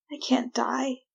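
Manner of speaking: breathless whisper; whispered fear. Acted. Prisoner whispering to herself in the dark, afraid. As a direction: whisper it like a secret terror. Frightened inner thought.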